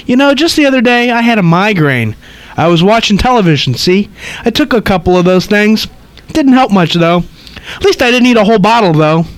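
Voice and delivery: put-on high, chattering old lady; gossipy old woman rattling on. Reads old lady's lines.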